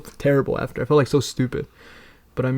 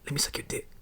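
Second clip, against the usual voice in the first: very soft, voiceless whisper; imitated whisper; 13 dB quieter, faster than usual. Imitating the crackhead at his job, creepy whisper. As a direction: whisper it like a secret proposition. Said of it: "He, like, whispered".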